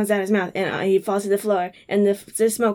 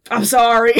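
laughing; 7 dB louder than usual. Retold or imitated. Sam apologizing, laughing.

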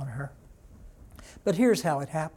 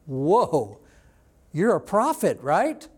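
amazed reaction; 5 dB louder, slower than usual. Retold or imitated. Preacher voicing the woman realizing Jesus is a prophet, amazed. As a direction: retell her being taken aback, punchy.

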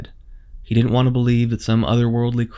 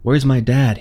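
blurted out; 2 semitones higher, 5 dB louder than usual. Acted. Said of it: "he blurted".

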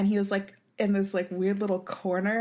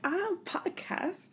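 slow, much higher, still soft; awkward repeat; 10 semitones higher, 6 dB quieter, much slower than usual. Retold or imitated. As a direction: say it again, higher and stretched out. Repeated louder on request.

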